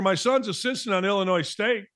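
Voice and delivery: ordinary delivery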